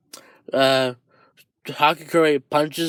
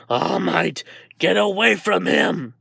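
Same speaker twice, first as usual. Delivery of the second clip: angry warning; 3 semitones higher than usual. Acted. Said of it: "Dark Shadow says".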